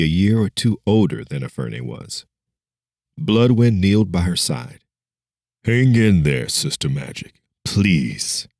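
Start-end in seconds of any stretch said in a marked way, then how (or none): 5.6-8.5 put-on mystic voice drunk with sadness. Hero begging his dying friend, mildly sorrowful. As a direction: hold him together, just barely. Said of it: "in the same mystic voice as before, but this time it was drunk with sadness".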